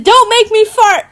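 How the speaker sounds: retold exclamation. Retells own embarrassing slip.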